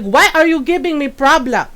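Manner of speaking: lightly imitated grandmother's accent; retold grandmother's accented complaint; grandmother's accented English. Great-grandmother complains at being corrected, lightly imitated accent. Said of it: "She's like".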